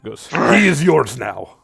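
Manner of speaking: lightly voiced small creature, broken English; a hint of a squat beast delivering a message; Vorlo's voice. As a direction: GM voicing the creature Vorlo, mild and earnest. Vorlo offers gift.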